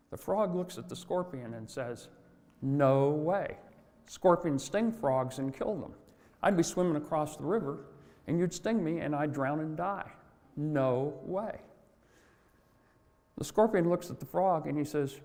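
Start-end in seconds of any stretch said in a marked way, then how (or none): 2.6-11.6 flatly refuse, a touch indignant; firm refusal. Acted. Frog refuses the scorpion.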